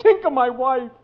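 pleading gangster. Acted. Gangster pleads about his wife.

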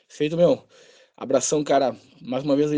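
hoarse, worn-out voice after shouting; voice giving out. Real, not acted. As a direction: speak with a tired, hoarse voice. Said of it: "desculpa pela voz". (voz rouca e cansada)

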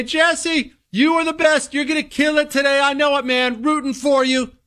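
high, gushing cheerleader voice; gushing receptionist. Retold or imitated. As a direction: pump him up like a fan.

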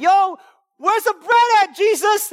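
high, loud mock shout from a hungry crowd; hammed-up hungry followers calling after Jesus. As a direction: yell it like a pushy crowd. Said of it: "they're following around like".

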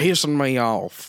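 mock redneck twang; Southern drawl. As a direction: play a tobacco-chewing country boy. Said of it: "Is that just chaw?".

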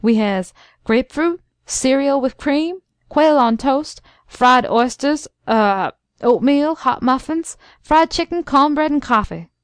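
a lightly voiced old servant listing the menu, rising on each dish; fluent old servant. Old servant proudly reciting the breakfast menu to his master, lightly voiced. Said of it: "Uncle Noah began fluently".

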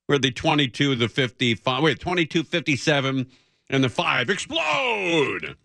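fumbled mock announcer shout; mock promo yell ending on explode; monster truck ad. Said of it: "They would say".

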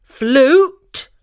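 Flute? jumps up in disbelief; a rising yelp of shock on Flute?. A narrator's reading. The boy stammering in shock at having to play. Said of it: "he stammered".

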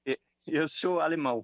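Portuguese with a German accent; German speaker talking Portuguese. Real, not acted. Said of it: "tá chamando a atenção do nosso ouvinte o sotaque do senhor".

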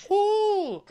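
very high delighted ooh; squealed ooh; excited ooh. Real, not acted. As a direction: coo with delight at the name. Sponsor shout-out.

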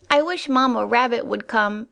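high, small scared rabbit voice; a tiny bunny squeaking for his mother; frightened squeak. Acted. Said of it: "he squeaked".

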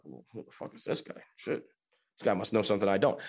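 hushed, awed mock whisper, then quick. Friend hearing the fancy word, hushed in mock awe. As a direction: whisper it like you've been fooled by big words. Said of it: "they will be like".

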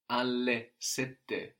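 alle sette said slowly with long double consonants; slow, careful. Shown as a demonstration. Teacher slowing down for the learner, careful alle sette. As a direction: draw out alle sette syllable by syllable. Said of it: "sette has two T's".

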